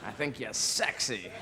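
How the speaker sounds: slow, drawn-out flirtation; flirting mynah bird. Acted. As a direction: chat them up as a cheeky bird. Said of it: "seen them in a pet shop".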